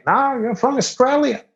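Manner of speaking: high, stubborn insistence; insistent redneck. Retold or imitated. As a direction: insist like a know-it-all local. Local insists he is Australian.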